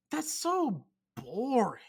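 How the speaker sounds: slow, breathy whispered "so boring". Acted. Repeating his complaint about chain restaurants, whispered.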